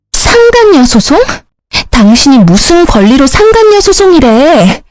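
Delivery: high-pitched, incredulous challenge; outraged question, pitch jumping up; indignant disbelief. A narrator's reading. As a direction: shoot back in shocked indignation. Mistress reacts to lawsuit threat.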